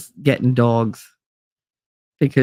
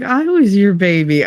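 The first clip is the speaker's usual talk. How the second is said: higher, hammed-up wounded plea; melodramatic hurt; 4 semitones higher than usual. Brother no longer the baby, mock melodramatic hurt. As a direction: imitate a jealous little brother protesting. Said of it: "he was so melodramatic about it".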